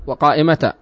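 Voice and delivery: وقائمة ending in "taa"; pause with ta. Shown as a demonstration. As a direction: sound the t of وقائمة and a long alif. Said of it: "على لغة من يقف بالتاء".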